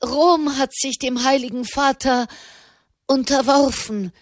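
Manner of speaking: high-pitched, excited outburst; bursting out. A narrator's reading. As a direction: let the news gush out, high and excited. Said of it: "sprudelte Malherbe heraus". (aufgeregt herausgesprudelt)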